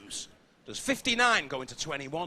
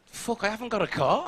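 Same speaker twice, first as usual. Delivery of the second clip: sudden panic; 6 semitones higher than usual. Retold or imitated.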